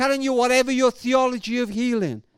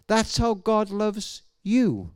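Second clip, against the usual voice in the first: gentle, slow cliché; slower than usual. Shown as a demonstration. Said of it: "they thought I was about to say".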